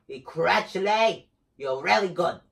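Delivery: slow, put-on British accent. Gamer complimenting Crutchley, put-on British accent. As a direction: try a drawn-out British accent. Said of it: "that's my British accent".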